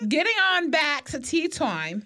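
lightly voiced talk-show host; Wendy Williams. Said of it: "I became Wendy Williams".

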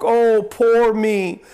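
slow hammed-up woe-is-me whine; mock wailing boo hoo; mock self-pity. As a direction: camp up a sulky pity party with a fake sob. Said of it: "lay there and sulk".

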